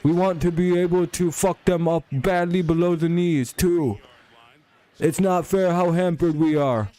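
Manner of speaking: high, whiny, put-on voice, slowing down; mocking high whine; mock whiny defender. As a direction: mimic a crybaby player whining. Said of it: "Average defensive player crying".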